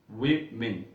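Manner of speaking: वीमेन said slowly as "vemin"; teacher modelling word. Shown as a demonstration. Teacher to students, carefully modelling वीमेन. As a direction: model वीमेन clearly for the class. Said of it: "वीमेन ये लफ्ज़ है".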